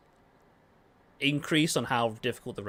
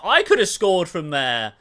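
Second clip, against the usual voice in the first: loud, raised, drawn-out armchair-pundit yell; indignant fan shout; 5 semitones higher, 9 dB louder than usual. Acted. Fan shouting at the screen after a miss, indignant yell. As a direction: holler it like an outraged fan. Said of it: "you'll be like".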